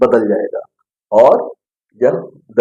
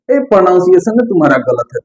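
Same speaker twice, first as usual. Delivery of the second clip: lightly voiced fault-finding teacher, higher and quick; imitated scolding teacher; 5 semitones higher, faster than usual. Imitating school teachers correcting a student, mild scolding. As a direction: imitate a teacher calling out a pupil's mistake, pitched up. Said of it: "teacher आपको मिलेंगे जो क्या कहेंगे".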